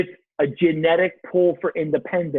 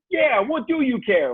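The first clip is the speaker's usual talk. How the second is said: high, mocking little voice; little inner voice; 8 semitones higher than usual. Nagging thought answering his wife's question, in a high little voice. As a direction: pipe up like a voice in the head. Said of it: "Little voices".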